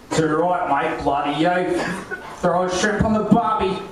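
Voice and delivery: put-on forced Aussie accent, laid on thick; fake Aussie accent. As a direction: foreigner putting on an Aussie accent. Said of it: "like I'm some foreigner trying to put on an Aussie accent".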